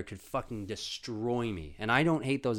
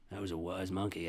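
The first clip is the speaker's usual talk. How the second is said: usual speaking voice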